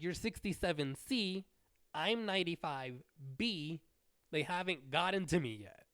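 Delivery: loud firm correction. Retold or imitated. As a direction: correct him sharply. Correcting the line cutter.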